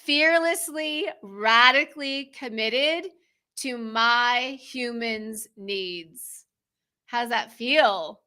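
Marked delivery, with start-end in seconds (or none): 0.0-6.5 affirmation. Shown as a demonstration. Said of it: "so we can say".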